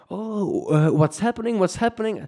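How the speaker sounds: high, puzzled bystanders calling out; startled locals. Retold or imitated. Locals running out of a small bar, startled. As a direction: sound like locals caught off guard.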